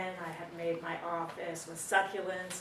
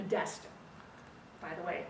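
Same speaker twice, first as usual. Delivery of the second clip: plain reading voice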